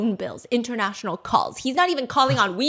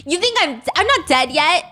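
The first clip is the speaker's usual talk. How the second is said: higher, sharp suspicious accusing; suspicious landlady; 5 semitones higher than usual. Retold or imitated. Landlady accusing the tenant of fake cash. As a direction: call out the trick, higher. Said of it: "she immediately goes".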